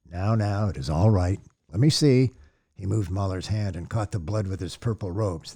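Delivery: calm him down gently like a father; gentle reassurance. Acted. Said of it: "It came as a gentle sound".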